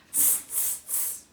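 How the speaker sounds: quiet unvoiced tsk-tsk; mock the peddler like a monkey. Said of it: "and said".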